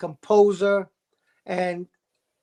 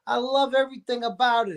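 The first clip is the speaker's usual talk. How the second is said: enthusiastic, higher gush over "love everything"; higher, excited "I love everything about it"; gushing fan; 4 semitones higher, faster than usual. Retold or imitated. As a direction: rave like a thrilled moviegoer. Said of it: "you're like".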